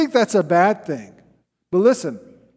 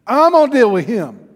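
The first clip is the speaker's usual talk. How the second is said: louder, puffed-up royal threat; mock self-righteous anger; 5 semitones higher, 8 dB louder than usual. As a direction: mimic the king's indignant vow. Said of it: "See the self-righteousness?".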